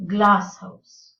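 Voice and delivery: GLASS house; stress on first part. Shown as a demonstration. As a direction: punch glass and let house fall away. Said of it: "the stress is on the first part".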